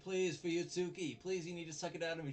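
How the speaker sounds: high, loud hammed-up pleading; mock desperate begging. Friend retelling teacher begging colleague to suck out venom, hammed up. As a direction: beg like a dying man, overdone.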